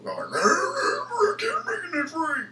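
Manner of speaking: put-on a very high, slow, failed stab at a British accent; a British accent that goes squeaky and falls apart. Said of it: "I can't do it in a British voice".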